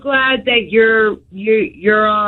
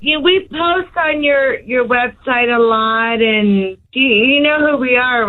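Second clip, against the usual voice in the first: hollow phone-on-speaker sound; speakerphone. Real, not acted. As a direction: caller heard through speakerphone.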